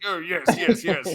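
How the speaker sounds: jokey put-on British voice; British accent. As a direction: play along as a hammed-up Brit. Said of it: "talking in a slight British accent".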